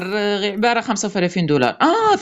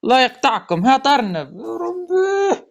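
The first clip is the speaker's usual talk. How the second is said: pleading; 5 semitones higher than usual. Real, not acted. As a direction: beg the machine, dragging the word. Pleading over a gacha spin.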